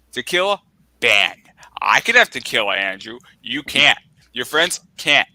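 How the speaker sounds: emphatic, punched retold scolding; stern mom ruling. Mom bans Andrew and friends from tequila, stern ruling. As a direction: lay down the law in firm, loud bursts. Retells mom laying down the ban.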